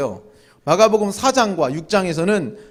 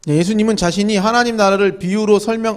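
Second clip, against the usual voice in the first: suddenly loud mic; 3 semitones higher, 5 dB louder than usual. Real, not acted. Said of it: "아, 갑자기 커졌네요".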